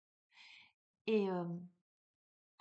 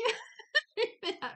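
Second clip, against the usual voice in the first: high laugh; 7 dB louder than usual. Real, not acted. Relief on meeting the jogger.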